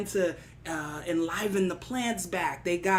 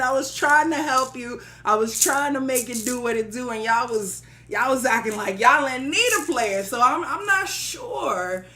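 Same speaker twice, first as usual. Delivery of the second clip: mock-aggrieved, a bit louder, playing hard to get; giving a hard time; 3 semitones higher, 6 dB louder than usual. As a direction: make them work for your help. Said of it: "had to give him a hard time".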